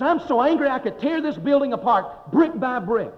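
high-pitched, mock-irate ranting; retold angry outburst. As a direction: act out an angry man's threat. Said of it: "he just blew up".

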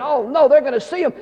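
high, loud mock alarm; panicked grandparents. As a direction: fret aloud in comic panic. Grandparents panicking over kids seeing.

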